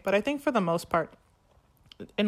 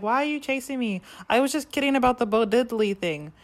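pleading Kurt; 5 semitones higher, 4 dB louder than usual. Retold or imitated. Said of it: "And Kurt's like".

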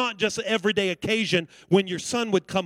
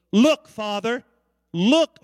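louder, curt demand for attention; disrespectful demand; 4 dB louder, slower than usual. Retold or imitated. Older brother demanding his father listen, curt. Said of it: "the oldest brother's attitude".

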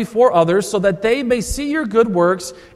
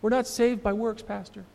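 high whispered mock protest, fading away; mock Lutheran protest; 4 semitones higher, 11 dB quieter than usual. Pastor mimicking his Lutheran flock objecting, in a high mock whisper. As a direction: whisper "No, no, no" up high like a fussy church member brushing it off. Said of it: "Lutherans, we sort of hear that and think".

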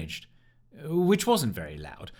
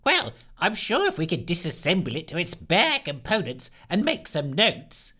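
exasperated; 6 semitones higher than usual. Acted. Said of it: "sounding close to utter exasperation".

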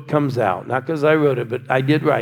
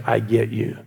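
soft tender reply; 4 semitones lower than usual. Retold or imitated. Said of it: "Sally, you say".

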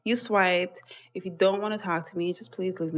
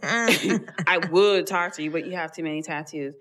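mocking quote; 3 semitones lower than usual. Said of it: "open your musty mouth and say to me".

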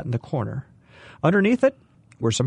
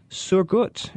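put-on high, eager old woman's voice; fussing old hostess; 6 semitones higher than usual. A narrator's reading. Old woman asking the family for their coats, high and eager. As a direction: fuss over them like dear family.

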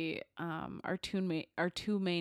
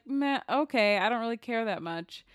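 indifferent shrug; 4 semitones higher, 5 dB louder than usual. Retold or imitated. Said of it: "Mel was kind of like".

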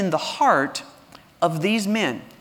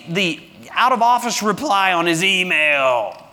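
sarcastic mockery; 5 semitones higher than usual. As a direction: keep teasing the absent god. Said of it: "Elijah mocked them".

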